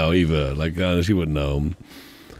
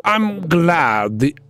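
hammed-up higher villain, drawn out in places; evil villain voice; 4 semitones higher, slower than usual. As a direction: play a gloating mad scientist. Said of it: "Like an evil German accent?".

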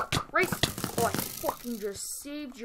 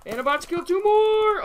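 excited boast; 10 semitones higher, 8 dB louder than usual. Real, not acted. Boasting mid fight.

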